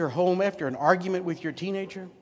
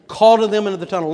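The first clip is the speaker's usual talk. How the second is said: calling out; 5 semitones higher, 12 dB louder, faster than usual. Real, not acted.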